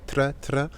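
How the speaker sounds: "tra" with a tongue-tip r straight after the t; T-R drill. Shown as a demonstration. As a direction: practise "tra", tapping the R off the T. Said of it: "prononcez de temps en temps T R".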